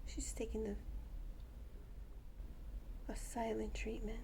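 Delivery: breathy whispered aside. Real, not acted. Owner whispering to the camera about her birds. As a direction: whisper it so the birds won't hear.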